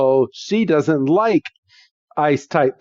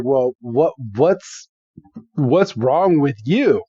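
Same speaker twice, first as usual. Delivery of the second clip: puzzled quote in the teller's own register; halting, mildly baffled question; puzzled retort. Retold or imitated. Rival looks at the panicking girl, puzzled retort. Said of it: "Trip looks at her and he's like".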